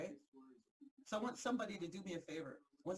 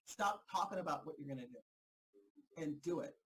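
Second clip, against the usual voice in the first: slow, lower, spelled-out command; a deliberate, lowered repeat of the order; 4 semitones lower than usual. Retold or imitated. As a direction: lay each word down slowly and firmly. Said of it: "they told me".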